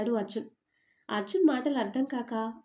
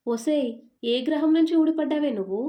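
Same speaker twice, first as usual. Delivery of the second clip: exasperated scolding; 4 semitones higher, 6 dB louder than usual. Acted. Arjun exasperated at Meena.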